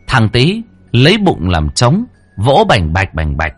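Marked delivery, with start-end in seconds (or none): none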